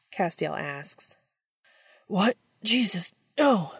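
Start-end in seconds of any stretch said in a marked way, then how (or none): 2.1-3.7 higher and louder, rising to a shout; alarmed refusal; cry out. A narrator's reading. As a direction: Sam shouting from the stall. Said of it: "Sam cries".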